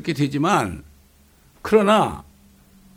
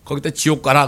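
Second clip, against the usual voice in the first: angry God; 4 dB louder than usual. Retold or imitated. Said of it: "하나님 화가 나서".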